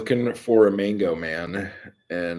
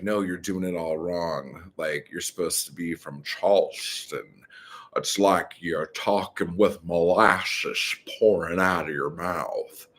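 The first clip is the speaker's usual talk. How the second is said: lightly imitated Charleston drawl; a hint of molasses-thick Southern drawl. Andy Bernard correcting someone's accent in a game, mock Southern drawl. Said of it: "starts talking in a Southern drawl".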